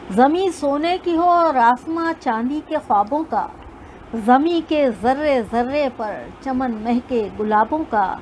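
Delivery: measured, lilting poem recital; stately nazm recitation. Acted.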